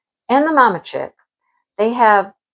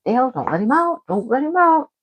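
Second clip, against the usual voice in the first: high, pleading repeat to Dale; 5 semitones higher than usual. Retold or imitated. To husband Dale about the cat, high pleading. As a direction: beg Dale, voice climbing. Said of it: "Drives me crazy".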